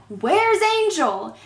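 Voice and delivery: slow, high anxious call for Angel; worried boyfriend. Retold or imitated. Boyfriend searching for the girl, slow and high. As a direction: boyfriend asking where the kid is, drawn out. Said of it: "the boyfriend is like".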